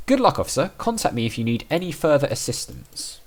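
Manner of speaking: a hint of a kindly judge. Player voicing the judge wishing the officer luck.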